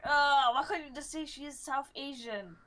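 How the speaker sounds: usual speaking voice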